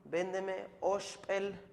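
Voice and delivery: véndeme osh said slowly to show the mistake; wrong example. Shown as a demonstration. Teacher shows students the wrong way to count. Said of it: "No puedes decir".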